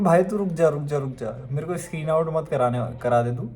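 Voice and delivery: a hint of a half-joking plea to a friend; lightly retold, half-laughing plea; mock pleading. Begging friend to stop jinxing.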